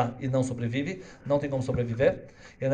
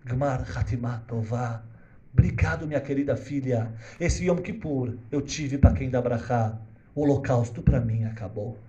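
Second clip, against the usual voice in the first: tender blessing; slower than usual. Acted. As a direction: bless the girl gently. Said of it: "o Rebbe olha pra menina e fala". (rabino abençoando com ternura, devagar)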